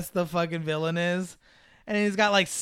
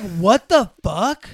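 disbelieving; 7 dB louder, much slower than usual. Retold or imitated. Listener reaction.

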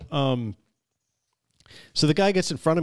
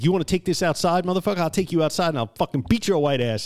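1 mock threat; 5 semitones higher than usual. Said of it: "He's like".

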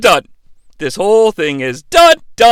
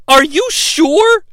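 slow, raised, hesitant question; a ruler double-checking the mob; doubtful governor; 6 semitones higher, slower than usual. Retold or imitated. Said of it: "The governor says".

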